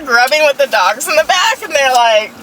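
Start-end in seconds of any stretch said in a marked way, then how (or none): none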